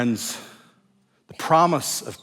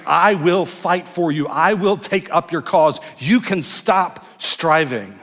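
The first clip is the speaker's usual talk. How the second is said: a hint of a fierce protector, louder and slowed; voicing God; 4 semitones higher, 5 dB louder, slower than usual. Pastor voicing God's promise, strong and slow. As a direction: say it as God promising to fight, firmly. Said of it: "It's God's way of saying".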